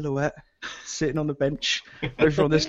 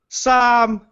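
put-on high, whiny, slow drunk plea; drunk pleading; 11 semitones higher, 5 dB louder than usual. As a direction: wail like a lost drunk begging rescue. Drunk friend pleading on phone.

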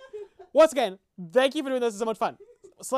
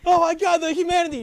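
high, loud mock lament; mock anguish; 5 semitones higher, 5 dB louder than usual. Joking over the piano interlude, mock anguish. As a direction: wail it like a hammed-up disaster report.

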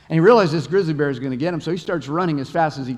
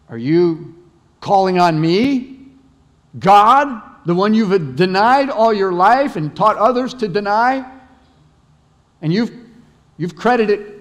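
higher, louder, booming heavenly voice; voice of God; 4 semitones higher, 5 dB louder than usual. Acted. God answering the atheist hunter, booming from heaven. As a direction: boom down from the sky like God himself. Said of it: "and a voice came from heaven".

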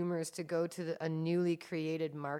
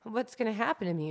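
freaking out; 5 semitones higher, 4 dB louder than usual. Retold or imitated. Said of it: "she's just freaking out and going".

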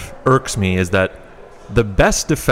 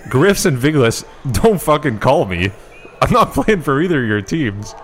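angry rant; 4 semitones higher than usual. Acted. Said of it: "Stephen A at his finest there".

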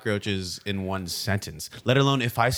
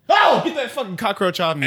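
laughing yell; 9 semitones higher, 5 dB louder than usual. Acted. Cockroach on him, laughing.

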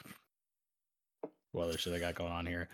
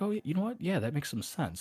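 mock concession; 8 semitones higher than usual. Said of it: "And they're like".

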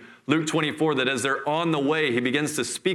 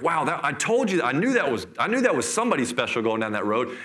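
imitating hysterical amazement, pitch swooping; mildly acted breathless-with-wonder disciples; excited retelling. Disciples amazed after seeing Jesus, excited retelling. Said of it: "they're, they're hysterical".

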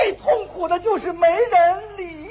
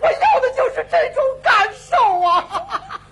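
joyful tearful cry; 5 semitones higher, slower than usual. Acted. Overjoyed at being understood.

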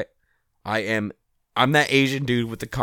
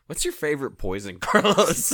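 real laugh breaking into the question. Real, not acted. Cracking up at own question.

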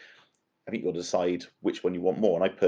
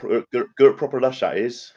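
high, loud broad Bristolian; Bristolian accent; 5 semitones higher, 6 dB louder than usual. Shown as a demonstration. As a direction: show off the West Country accent. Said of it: "give me the accent there".

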